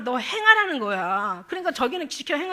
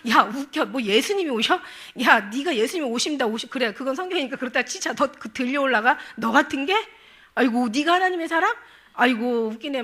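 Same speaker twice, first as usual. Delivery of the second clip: louder mocking questions, acted out; acted scornful jeering; 5 dB louder than usual. Preacher voicing spirits deriding "God's person", loud acted scorn. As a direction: scoff like an accuser belittling a believer. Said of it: "막 이러면서".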